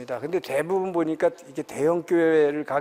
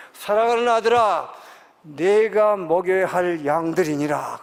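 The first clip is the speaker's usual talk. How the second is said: slow, solemn, louder divine voice; voice of the Lord; 4 dB louder, slower than usual. Retold or imitated. The Lord addressing his servant, solemn and slow. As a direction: speak as God calling a son. The Lord's voice speaking to him.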